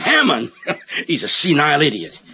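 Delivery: dismissive chuckle through the words; mocking a rival with a laugh; scornful laugh. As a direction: laugh the name off, then sneer the insult. Scoffing at a rival candidate.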